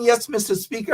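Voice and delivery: lightly put-on British politeness; a touch of mock British; mock British accent. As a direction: mimic a would-be British parliamentarian. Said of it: "born in the same hospital as Margaret Thatcher".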